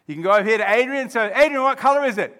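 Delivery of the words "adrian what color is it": high, loud, quick question; pressing question. Acted. Mediator to other quarrelling friend, pressing question. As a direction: call over to the other side.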